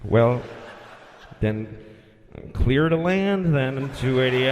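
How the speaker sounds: low, slow, begrudging radio drawl; a hint of a fed-up controller; grudging clearance. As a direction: give in reluctantly, like dude. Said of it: "That's how he said it".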